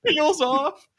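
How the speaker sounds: slow, loud, laughing through the words; can barely get it out for laughing. Real, not acted. To friends about the Bond scene, cracking up.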